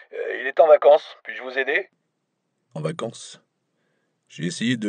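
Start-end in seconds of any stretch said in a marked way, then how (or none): 0.1-1.9 higher, hesitant receptionist voice; a flustered desk clerk answering. A narrator's reading. Receptionist hesitantly answering an unexpected foreign caller.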